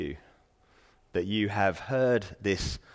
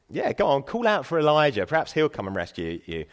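goading jeer, starting higher and louder; making fun; 5 semitones higher, 4 dB louder than usual. Retold or imitated. Crowd making fun of the crucified Jesus, mocking. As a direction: egg him on in mock encouragement, then drop away. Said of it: "they were making fun of him".

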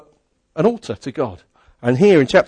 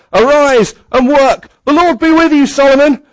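proclaiming charge; 8 semitones higher, 5 dB louder than usual. Acted. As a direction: declaim it like a king commissioning his son. David's charge to Solomon.

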